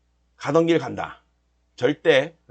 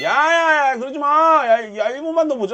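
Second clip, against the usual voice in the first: half-joking plea to the chart; pleading with the chart; 6 semitones higher than usual. Real, not acted. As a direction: beg the market to wait. Trader pleading with chart live.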